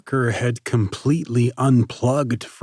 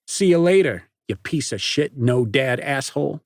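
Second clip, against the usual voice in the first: loud, high mocking jeer; jeering at Parker; 5 semitones higher, 4 dB louder than usual. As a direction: sneer it out. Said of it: "Nate jeered".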